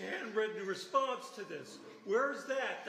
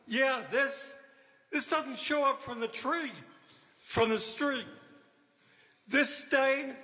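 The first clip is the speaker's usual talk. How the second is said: heated protest; 4 dB louder than usual. Real, not acted. Angry owner disputing code violations.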